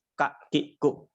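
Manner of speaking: Ka, ki, ku with no puff of air; too plain ka. Shown as a demonstration. Teacher showing the too plain ka, no air. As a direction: say ka ki ku dry and flat. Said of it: "terlalu polos".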